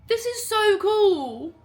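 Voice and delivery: high, loud, slow and drawn out; thrilled squeal. Real, not acted. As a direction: squeal it, nearly in tears. Overwhelmed unboxing.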